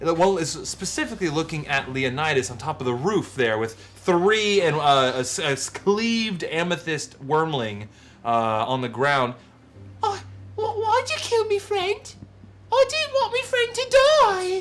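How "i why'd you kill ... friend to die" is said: very high, tiny, squeaky small creature voice. Voicing a slain wormling at the game table, tiny wormling voice. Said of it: "their little voices".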